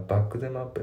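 "バックゼムアップ" with back and up split by them; three-part "back them up"; separated. Shown as a demonstration. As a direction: say "バックゼムアップ" word by word. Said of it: "離れてますよね".

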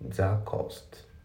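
THE COST with the T at the end of "that" nearly silent; linked English "The cost", T left unreleased; dropped T. Shown as a demonstration. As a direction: run "The cost" together, first word's final T swallowed. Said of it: "ほぼ発音されてないですよね".

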